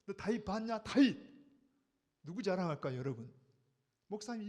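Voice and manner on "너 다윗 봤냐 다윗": proud God. Retold or imitated. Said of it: "입만 열면".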